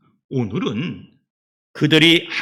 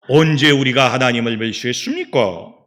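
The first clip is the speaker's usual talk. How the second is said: loud, challenging comeback, acted out; protesting denial; 6 dB louder than usual. Israelites denying they despised God, protesting. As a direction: throw the accusation back as a question. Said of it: "이렇게 또 항변을 합니다".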